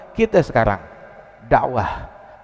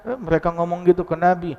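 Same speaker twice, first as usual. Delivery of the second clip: acted indignation; 4 semitones higher than usual. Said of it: "Siti Aisyah dengar begitu".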